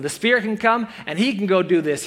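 usual speaking voice

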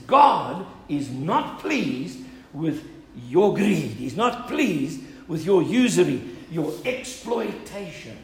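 slow, loud prophetic rebuke; Nehemiah rebuking. Acted. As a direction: Nehemiah scolds the people for greed, slow and loud. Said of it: "He says".

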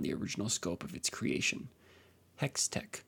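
story narration. Acted. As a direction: read the biography like an epic tale. Reads the champion biography.

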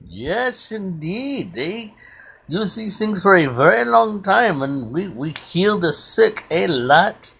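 lightly put-on Indian accent; Rajneesh's Indian accent. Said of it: "I love that accent".

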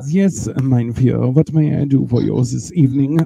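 low, put-on German butler accent. Shown as a demonstration. Butler offering to run the bath, mock German accent. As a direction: play a servile butler with a thick German accent. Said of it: "like, a German accent".

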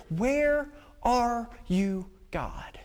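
slow, softened, trailing down; forlorn wondering. Acted. Elijah still waiting in the wilderness, forlorn wondering. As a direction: draw out each word, fading on the last. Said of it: "still there wondering".

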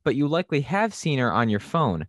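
polished podcast host intro; announcer intro read. Acted. Reads scripted guest intro over music.

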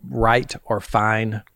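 "right" and "fine" stretched out very slowly; Southern vowels, drawn out. Shown as a demonstration. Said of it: "If I say words like".

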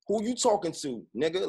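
angry at mother. Retold or imitated. Son talking back to his mother, re-enacted heated challenge. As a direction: confront her like he lost control. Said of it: "now I'm talking to my mother like this".

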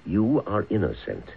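firm, deliberate instruction; stern command. Acted. Father telling son the false story, stern and firm. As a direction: lay down the law to your son.

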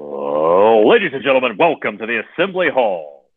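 booming arena announcer intro. Shown as a demonstration. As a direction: announce it like a stadium PA. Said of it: "That's my P A voice".

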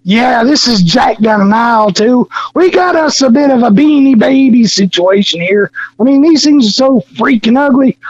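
lightly sneering Nicholson rant; Jack Nicholson. Retold or imitated. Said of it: "Jack Nicholson".

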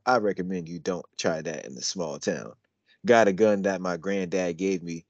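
put-on lyrics recited in a country accent. Showing a friend his country accent on the lyrics, country twang. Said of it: "my country accent is strong".

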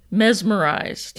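slow, eerie ghost-like moan; drawn-out spooky ghost voice; ghostly voice. Pretend. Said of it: "Sounded like a ghost".

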